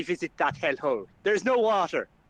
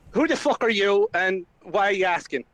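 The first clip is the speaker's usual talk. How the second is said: louder, higher threat at gunpoint; menacing growl; 3 semitones higher, 4 dB louder than usual. Acted. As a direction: demand it like a drunk with a pistol. Flynn menaces stranger at gunpoint.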